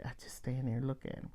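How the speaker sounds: quick whisper, barely voiced. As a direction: hush it, fast and breathy. Silently watching ranting caller.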